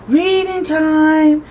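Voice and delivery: loud, high, slow call of reading time; booming shout. Acted. Samuel shouting to the class for reading time, booming. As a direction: stretch it out like a thunderstorm kid. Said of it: "shouted Samuel".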